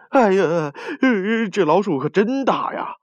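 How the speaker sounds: high-pitched cry of amazement; astonished exclamation. A narrator's reading. Crowd spotting the rat on the ox's back, astonished. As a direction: exclaim in high-voiced surprise. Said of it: "立即的惊呼起来".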